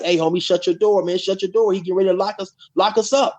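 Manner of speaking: imitated hollering. Inmates urging a dude to shut his door, mock hollering. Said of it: "like, hollering to the dude".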